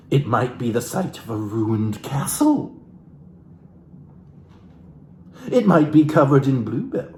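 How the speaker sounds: lightly theatrical book reading; a hint of stage reading from the book; dramatic reading. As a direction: read the passage like a soulful memoir. Continues reading the book aloud.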